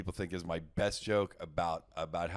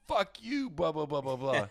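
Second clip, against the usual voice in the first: mocking hecklers; 5 semitones higher than usual. Hecklers mocking him at show.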